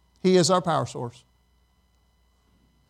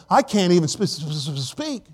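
stuttering Moses. Retold or imitated. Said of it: "when he went to the people and said".

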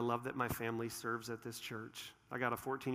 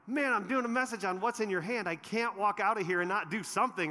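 excited inner voice; 7 semitones higher, 5 dB louder than usual. Retold or imitated.

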